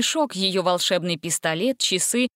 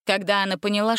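usual speaking voice

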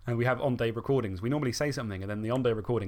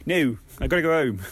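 put-on Dave accent; 2 semitones higher, 7 dB louder than usual. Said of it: "That's my Dave accent".

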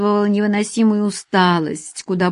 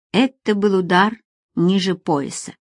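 usual speaking voice

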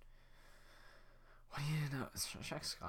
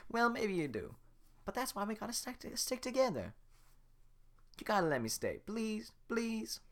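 begging Donkey; 11 semitones higher than usual. Acted.

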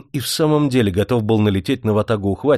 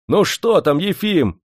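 high, raised-voice question; calling out; 8 semitones higher, slower than usual. A narrator's reading. Men shouting to the dam master, calling out. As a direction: call down to someone far below. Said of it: "закричали Плотинному мужики-ухватчики".

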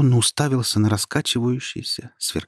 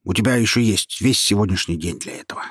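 displeased. Acted. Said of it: "недовольно сказал голос".

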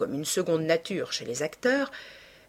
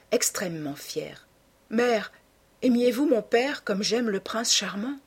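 higher-pitched, lightly acted daughter; lightly voiced young woman in love; 4 semitones higher than usual. Daughter confiding her love to her mother, lightly acted ardour. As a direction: ardent confession, lightly voiced, with lifted pitch.

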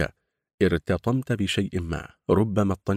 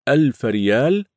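in unison; 6 semitones higher, 6 dB louder than usual. Acted. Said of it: "قالوا بصوت واحد".

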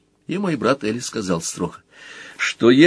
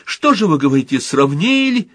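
plaintive mother voice; 7 semitones higher, 3 dB louder than usual. Pretend. Little Motl plays the mother, whining plaintively. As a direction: whimper it like a put-upon mother. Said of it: "Мотл маленький".

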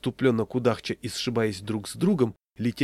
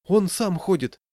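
high, louder objection; protesting; 9 semitones higher, 5 dB louder than usual. A narrator's reading. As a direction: protest on the child's behalf. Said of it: "запротестовала жена". (протестующе, высоким голосом)

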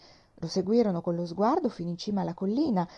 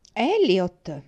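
startled cry; 7 dB louder than usual. Acted. The company cries out the name.

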